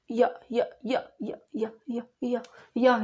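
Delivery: short, halting repeated syllables; imitated stammer. Girl struggling to answer her teacher, imitated stammering. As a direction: imitate a child stuck trying to say a word. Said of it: "या बोल रहे थे। कैसा?".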